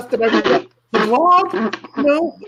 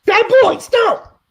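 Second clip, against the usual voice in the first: mock scolding dominatrix; 4 semitones higher, much slower than usual. Scolding the bad puppet.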